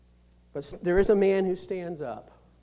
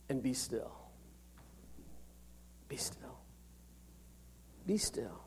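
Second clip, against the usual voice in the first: soft words that sink into a whisper; calm them down, quieter each time; fading to a whisper; 7 semitones lower, 21 dB quieter than usual. Retold or imitated. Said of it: "He says".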